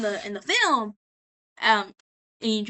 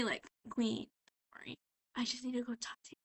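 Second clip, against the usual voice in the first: hushed, much softer reassurance; mock soothing; 10 dB quieter than usual. Valentino to Charlie after the fire, mock soothing. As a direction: imitate smooth, quiet calming words. Boss falsely reassures, then takes aside.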